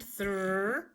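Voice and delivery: isolated thr blend, drawn out; sounding out. Shown as a demonstration. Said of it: "Put the R there for the digraph blend".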